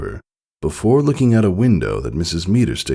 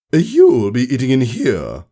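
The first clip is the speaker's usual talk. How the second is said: stern order; 9 semitones higher, 4 dB louder than usual. Acted. Teacher gives an order.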